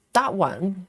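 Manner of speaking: talking through chocolate; words around a mouthful of chocolate; mouth full. Real, not acted. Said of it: "I've got chocolate in my mouth".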